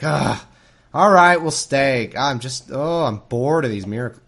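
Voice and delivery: bored and fed up. Pretend. Moses, tired of doing miracles, gives in with mock boredom. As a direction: groan it like a fed-up miracle worker. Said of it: "will just get tired or bored".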